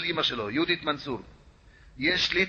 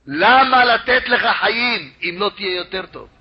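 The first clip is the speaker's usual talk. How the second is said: 1 stern challenge; 4 semitones higher, 5 dB louder than usual. Retold or imitated. Angel of death's question climax.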